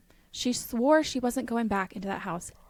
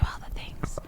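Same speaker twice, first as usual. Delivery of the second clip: whisper; 3 dB quieter than usual. Real, not acted. Urging a friend, quietly playful.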